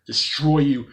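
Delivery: loud, menacing robot chant; evil robot voice. Acted. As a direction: bark it out like a killer robot.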